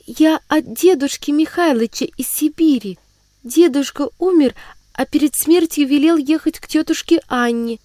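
put-on high girl's voice, pleading and eager; a child explaining herself to a stranger; earnest little girl. Sibirochka introduces herself to her aunt, high and earnest.

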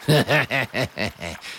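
smug sneering chuckle; a sly villain's laugh; wizard's mocking laugh. A narrator's reading. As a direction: laugh down at the boy.

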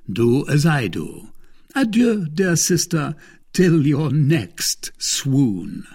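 a lightly voiced, sneering nobleman; a hint of a scornful English lord; Lord de Winter, mocking. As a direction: taunt your captive sister with cold courtesy. Lord de Winter taunts milady.

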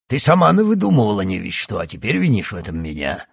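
fast, loud scolding; retort. Acted. Doctor scolding Yana, fast and loud. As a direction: fire it back quickly.

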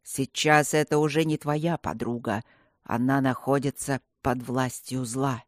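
ниже и мрачнее, как старый маг; предупредить сурово и веско; старый волшебник. Acted. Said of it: "приказал старый волшебник". (старик предостерегает мальчика, низко и мрачно)

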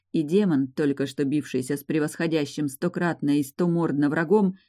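ordinary delivery

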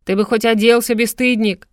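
loud indignant scold. A narrator's reading. Mother scolds her half-dressed son before the doctors, indignant. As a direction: shame him in front of the doctors. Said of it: "возмутилась женщина".

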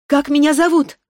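put-on a child spirit passing sentence, unhurried; sweet young voice. Spirit demands her name.

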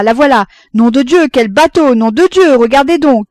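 running commentary rising to a high, loud shout; announcing, excitement building. A narrator's reading. Father reporting the ship's progress, increasingly excited. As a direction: start as a lookout's report, build to thrilled yelling. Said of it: "il annonçait".

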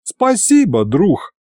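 high, rueful thanks dropping away; bitter sigh. Acted. Aide bitterly thanks his too-helpful friend, bitter sigh. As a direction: thank him with sour resignation. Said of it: "горько вздохнул я".

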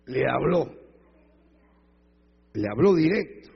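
emphatic, loud preacher's declaration; loud proclamation. Real, not acted. Preacher tells the congregation God answered, loud and emphatic. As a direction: punch each phrase out loud.

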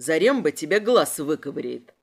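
low, gentle menace; mock-tender threat. A narrator's reading. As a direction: promise harm affectionately. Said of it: "ласково пообещал инспектор".

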